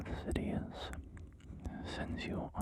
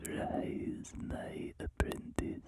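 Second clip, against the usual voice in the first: Palpatine voice; much slower than usual. Acted. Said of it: "an Emperor Palpatine ASMR roleplay".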